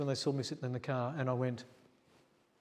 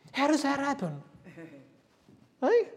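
higher, louder amazed wonder; 13 semitones higher, 5 dB louder than usual. Real, not acted. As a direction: marvel out loud at it. Astonished retelling of found keys.

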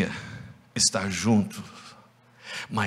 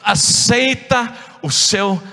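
raised, louder hushing scold; scolding crowd; 10 semitones higher, 4 dB louder than usual. Acted. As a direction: shut him down firmly. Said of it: "o povo perto dele começou a falar".

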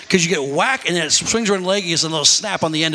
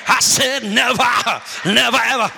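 raised, higher preaching yell; preachy mock yell; 4 semitones higher than usual. Mother preaching at her son while whipping, mock yell. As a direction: holler it like a preacher at a child. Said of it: "Get all preach about".

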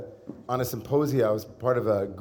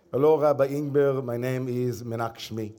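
put-on light Israeli accent. Rabbi imitates an Israeli ashram teacher introducing herself, a light Israeli accent. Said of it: "I'm someone who's good at accents".

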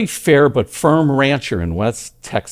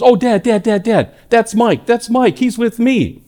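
urgent calling out; 9 semitones higher than usual. Retold or imitated. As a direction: call out fast to stop him. Son calling to father urgently.

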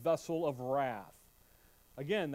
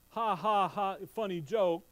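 mock chuckle. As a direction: toss off a fake joke-laugh. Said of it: "he's not laughing as in".

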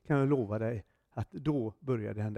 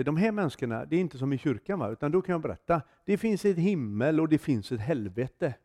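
retold fervent witnessing, pushing the voice up; preaching hard. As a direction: give it everything, like a street preacher. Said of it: "och då tog jag i".

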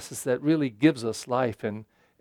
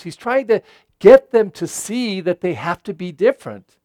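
usual speaking voice

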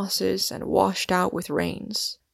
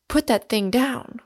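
a startled, raised order with a higher pitch; alarmed cry; 4 semitones higher than usual. Acted. Warden to Smith holding a revolver, alarmed raised order. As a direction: stop him before he fires.

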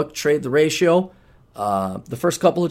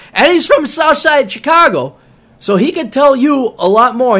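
put-on voice; 9 semitones higher, 6 dB louder than usual. Praising coauthor in a put-on voice.

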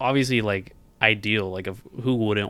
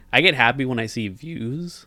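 voice cracking; 4 semitones higher, 5 dB louder than usual. Real, not acted. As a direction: voice cracks on the word. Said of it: "my voice just cracked".

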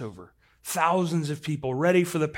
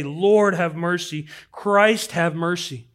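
slow, measured invocation; emphatic, slow repeated prayer; prayerful refrain; 5 dB louder, slower than usual. Acted. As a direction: draw out each plea deliberately. Monks' repeated prayer voiced.

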